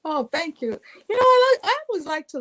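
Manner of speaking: high, loud put-on Minnesota Norwegian twang; playful Minnesota Norwegian accent. Shown as a demonstration. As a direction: sing it out in a Minnesota Norwegian lilt. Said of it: "I use that Minnesota Norwegian twang".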